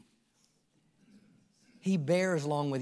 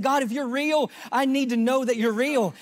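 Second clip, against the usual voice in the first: crying out to God; 6 semitones higher, 4 dB louder than usual. Retold or imitated. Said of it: "And I cried out to him".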